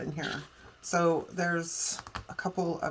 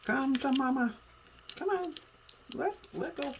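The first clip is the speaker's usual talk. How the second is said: coaxing; 8 semitones higher than usual. Real, not acted. Coaxing a stubborn sticker.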